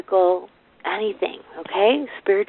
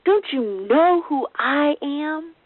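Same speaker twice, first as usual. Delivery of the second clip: mock arrogant big shot; 7 semitones higher, much slower than usual. Mocking arrogant pride.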